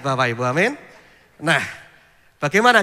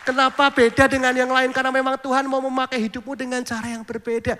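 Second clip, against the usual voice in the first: higher and louder, rousing: "Kenapa beda dengan yang lain?"; preached again loud; 6 semitones higher than usual. Acted. Pastor repeating the message to the congregation, rousing and louder. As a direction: proclaim it boldly to the whole church. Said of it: "Ya, sekali lagi".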